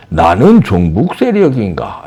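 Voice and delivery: slow, sarcastic rhetorical question; mocking quote. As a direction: slowly parrot his smug post. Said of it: "이러면서요". (느리게 비꼬는 인용)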